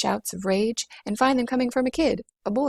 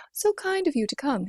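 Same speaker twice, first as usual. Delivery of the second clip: drummer voice; 6 semitones higher than usual. Acted. Drummer greets Rosie.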